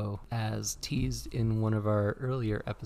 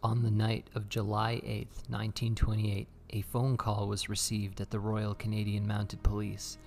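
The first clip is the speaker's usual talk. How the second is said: measured storytelling read; true crime narration. Acted. Reads true crime over music.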